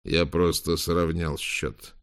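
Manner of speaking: cold, slow and controlled; coldly calm, no emotion; icy calm. Acted. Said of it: "ответил с ледяным спокойствием".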